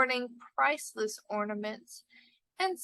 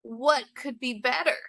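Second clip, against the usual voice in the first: delighted exclaim; 5 dB louder than usual. Acted. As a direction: savour it, pleased with the simple soup. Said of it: "exclaiming delightedly".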